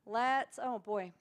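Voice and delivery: ordinary talk, nothing marked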